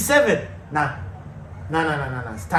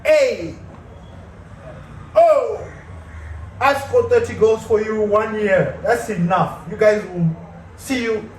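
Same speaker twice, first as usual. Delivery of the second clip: mock Rashford; 2 semitones higher, slower than usual. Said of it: "he was like".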